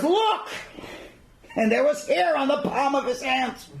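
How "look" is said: high, emphatic acted cry; loud-hearted dramatic reveal; triumphant exclamation. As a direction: show it off with a sudden high burst. Brother triumphantly shows his hand.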